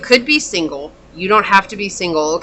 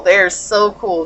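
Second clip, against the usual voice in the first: slow, savoring repeat; slower than usual. Shown as a demonstration.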